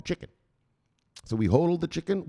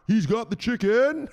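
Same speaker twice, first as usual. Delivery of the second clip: excited hype; 10 semitones higher, 5 dB louder, slower than usual. Pretend. Hyping a follower's portfolio.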